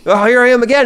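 high, loud mock cop; hammed-up high cop; sighing cop. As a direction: play the weary policeman. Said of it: "retelling game cop encounter".

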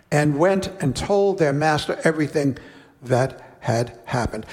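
measured, unhurried Bible reading; slowing on the king's sentence; scripture reading. Acted. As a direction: read the parable to the congregation. Reads scripture passage aloud.

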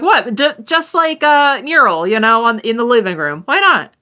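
Virgil's voice. Acted. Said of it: "He's like".

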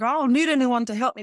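a hint of a fiercely independent kid insisting; fierce little girl. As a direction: push it out like a self-reliant little girl. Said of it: "the fierce, independent little girl was like".

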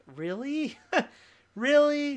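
mock outrage at being singled out; hammed-up indignation; mock indignant disbelief. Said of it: "to be like".

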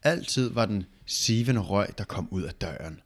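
slow read-aloud, sinking at the end; story narration. A narrator's reading. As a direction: read it out haltingly, letting the end drop.

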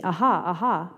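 AHA, AHA with a swooping pitch on each; lightly dramatize "Aha, aha", rise and fall on both; emphasized mocking quote. Children's reader holding back theatrics, emphasis on both "Aha"s. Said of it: "hard not to, um, put emphasis on certain words".

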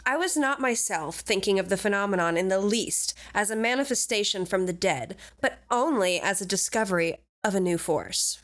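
light Valley Girl voice, barely put on. Shown as a demonstration. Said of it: "I'm giving him Valley Girl voice".

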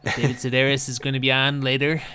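a light public radio host; Ira Glass voice. Retold or imitated. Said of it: "My favorite is Ira Glass".

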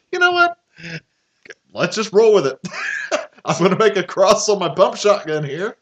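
high, laughing shrug; laughing through a shotgun quip; laughing mock bravado. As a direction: play it like a giddy tough guy. Quoting with laughter.

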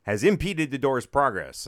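loud mock announcer scolding; hammed-up automated reprimand; condescending recording. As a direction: call out the culprit like a snooty recording. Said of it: "like, real condescending".

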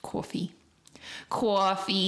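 New York "Coffee" with a rounded vowel; exaggerated New York vowel; put-on New York accent. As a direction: play up a Staten Island accent. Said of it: "It's like New York".

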